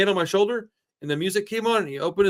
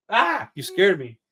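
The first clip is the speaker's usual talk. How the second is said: playful startle; 3 semitones higher, 3 dB louder, slower than usual. Pretend. You scared me.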